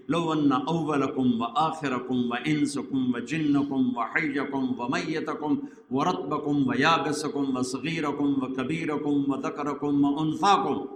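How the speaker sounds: slow, measured Arabic recitation. Acted. Preacher quoting the Prophet to his congregation, measured recitation. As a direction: recite it slowly in a steady rhythm.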